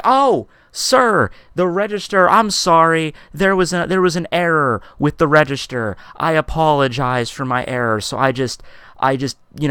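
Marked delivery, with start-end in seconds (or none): 0.0-8.0 high, over-polite cashier apology; starts high and sing-song, settling down to usual pitch; mock apology. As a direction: placate an angry customer insincerely. Cashier placating customer with false apology.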